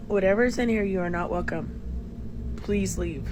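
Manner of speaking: stern command. Real, not acted. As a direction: order the spirit out firmly. Ordering a spirit out.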